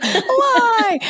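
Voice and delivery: loud, high laughing cry; laughing echo. Real, not acted. Speaker echoing her co-host's punchline, laughing loudly. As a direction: burst out laughing on the word.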